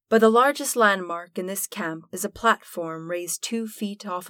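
measured storyteller narration, paced and even; game master scene setting. A narrator's reading. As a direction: paint the gloomy camp for the players. GM sets the camp scene.

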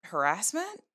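hesitant, questioning, with a pause before the last word; unsure. Acted. Jackie answers Steven on whether his email was harassment, unsure. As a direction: trail into an uncertain question. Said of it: "You don't sound so sure".

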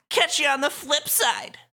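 high, loud, sing-out farewell; cocky villain. Acted. Suzukichi leaving the losers behind, cocky. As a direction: toss off a showy goodbye.

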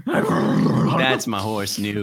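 slow, lightly voiced horse. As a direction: speak slowly as the horse. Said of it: "Dallas is voicing his horse".

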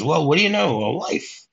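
acted-out pleasant surprise, pitch swooping up; lightly hammed-up astonishment; mock amazement. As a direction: imitate someone coming out of a stupor at news. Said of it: "gets over his, uh, little stupor and then goes".

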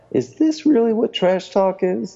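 laughing disbelief. Retold or imitated. Co-host mocking the movie's trash talk, high and laughing. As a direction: giggle through the disbelief. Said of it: "and I'm like".

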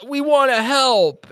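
put-on high, slow Kiwi-accented plea; eager teen in a Kiwi accent. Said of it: "that are like".

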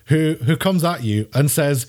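ordinary delivery

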